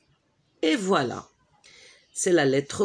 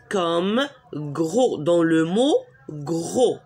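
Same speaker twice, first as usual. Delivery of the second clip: slow example reading; slower than usual. Shown as a demonstration. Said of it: "Une autre consonne".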